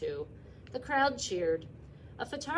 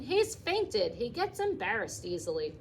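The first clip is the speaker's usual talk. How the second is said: urgent calling; 3 semitones higher, 4 dB louder than usual. Acted. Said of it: "hollered Zuckerman".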